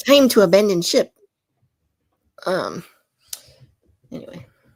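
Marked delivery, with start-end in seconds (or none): 0.1-1.1 very loud, high-pitched, fake Irish brogue. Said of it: "I don't know why I'm making him sound Irish".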